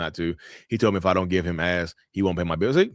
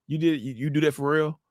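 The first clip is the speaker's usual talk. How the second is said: higher-pitched retold disbelief; incredulous counselor; 8 semitones higher than usual. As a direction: question it as the astonished pastor. Counselor voiced questioning the husband.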